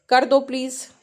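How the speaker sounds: a firm push to just do it; demanding tone. Shown as a demonstration. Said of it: "All are different".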